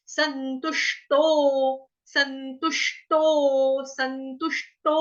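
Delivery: संतुष्टो slow with retroflex ष्टो; slowly chanted संतुष्टो; slow demo. Shown as a demonstration. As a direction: stretch संतुष्टो, tongue curled on ष्ट. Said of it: "षटकोण वाले श का".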